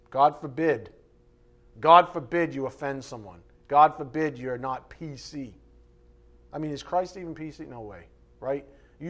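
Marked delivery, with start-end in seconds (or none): 0.1-5.6 sarcastic. Real, not acted. Sarcastic exclamation.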